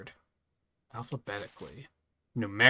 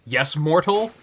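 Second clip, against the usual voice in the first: haughty god voice; 6 semitones higher, 9 dB louder, slower than usual. Acted. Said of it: "he's just like".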